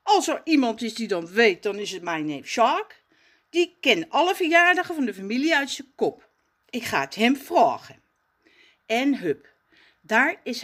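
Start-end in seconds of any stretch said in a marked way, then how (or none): 0.0-8.0 put-on higher, louder, fast eager boy; eager Raf. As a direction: rush to share the idea. Raf excited plan.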